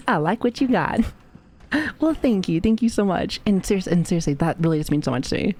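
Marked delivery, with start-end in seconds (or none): 0.1-1.0 playful higher flirty repeat. Pretend. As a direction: say it again with more flirt. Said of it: "repeat, flirty".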